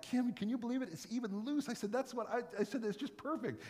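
a touch of mock excitement; excited to wife. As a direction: share the find with your wife. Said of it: "I'm like".

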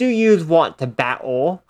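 slow, mock Australian accent; imitated Australian tough guy. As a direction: put on a playful Australian twang. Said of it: "you got the Australian guy".

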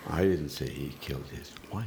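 "didn't" stressed, said softly; a soft denial weighted on "didn't". Shown as a demonstration. Last round of the emphasis game, stress on "didn't". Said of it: "put the inflection on the second".

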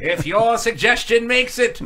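slow, grand announcer parody; mock announcer. Co-host repeating the tease to get laughs, slow announcer voice. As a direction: proclaim it like a TV narrator.

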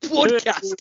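mimicked Geordie accent; mock Geordie accent. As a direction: parrot it back in Geordie. Echoing the Geordie take delightedly.

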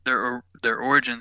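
slightly tipsy, stumbling words; tripping over words a little tipsy. Real, not acted. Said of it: "sorry, I'm tipsy tonight".

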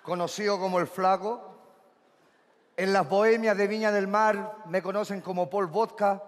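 low, measured seducer; low heartthrob patter; suave galán introduction. Acted. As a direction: introduce yourself deep and smooth.

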